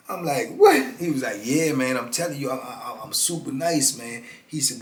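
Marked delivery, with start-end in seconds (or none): 0.5-0.9 disbelief. Retold or imitated. Narrator reacts in disbelief. 1.4-4.2 put-on New Orleans accent. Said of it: "Got that little New Orleans accent".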